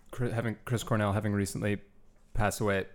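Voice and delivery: hiccuping through the words; interrupted by hiccups. Real, not acted. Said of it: "Sorry, excuse me, hiccups".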